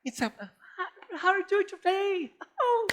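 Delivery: high, put-on American English accent, mocking. Pastor mocking a Brazilian who fakes an American accent. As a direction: ham up a fake American accent. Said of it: "Sabe aquela".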